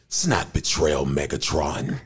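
low, acted robot line; put-on robot voice. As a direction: drop the pitch and play it to a villain. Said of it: "I'm doing this voice".

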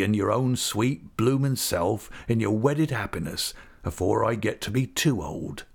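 broad rustic English dialect, heartfelt; affectionate old countryman. Acted. Old visitor tells Agnes why he came, affectionate rustic voice. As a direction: confide it like a fond old rustic. Peggotty explains his visit.

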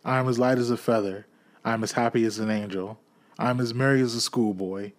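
quick, giddy, bursting with glee; old man giddy with Christmas joy. Acted. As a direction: babble like a giddy schoolboy. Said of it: "as giddy as a drunken man".

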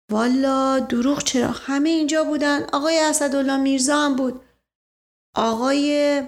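a hint of a simple, evasive manservant; hesitant servant. Narrator voices Mash Qasem.

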